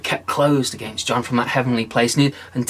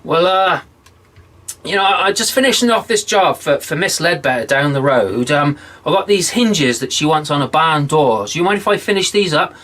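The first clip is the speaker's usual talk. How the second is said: put-on higher, chatty old smith stalling; innocent stalling; 3 semitones higher, 4 dB louder than usual. Wicked John stalling the devil, high and chatty. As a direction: play dumb and keep him waiting.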